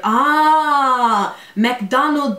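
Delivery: ah, McDonald, suddenly understanding; Korean taxi driver. Retold or imitated. Taxi driver finally gets the address, mock understanding. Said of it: "they're like".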